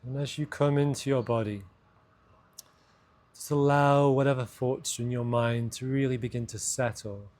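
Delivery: measured meditation voice with long pauses; guided meditation. Acted. Host guiding listeners' awareness down into the body, guided meditation. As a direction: let each phrase settle before the next.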